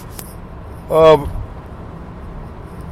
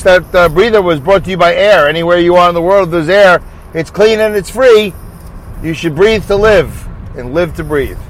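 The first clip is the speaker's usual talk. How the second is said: playful radio-spot pitch; mock ad read. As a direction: sell air like a commercial. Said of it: "A little spot for air and breathing".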